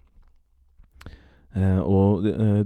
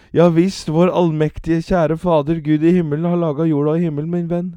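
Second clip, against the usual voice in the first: put-on raised, higher preacher voice for the old man; preaching old man; 10 semitones higher, 8 dB louder, faster than usual. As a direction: sermonize like a lay preacher. One-eyed old man preaching.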